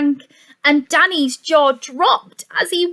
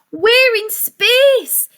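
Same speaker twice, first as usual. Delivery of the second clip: excited whisper; 9 semitones higher, 4 dB louder, slower than usual. A narrator's reading. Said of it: "Danny yelled".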